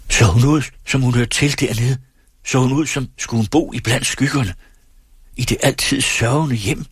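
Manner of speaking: high, urgent questioning; impassioned challenge. A narrator's reading. Young singer demands answers about his lost love, high and impassioned. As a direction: press each question home, pitched high. Orpheus urgently confronts the old ferryman.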